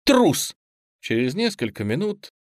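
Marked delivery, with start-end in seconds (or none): 0.0-0.6 high, loud one-word jeer; shouted taunt. A narrator's reading. Bound boy banging his head, shouted taunt. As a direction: scream the insult. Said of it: "кричал Лёня".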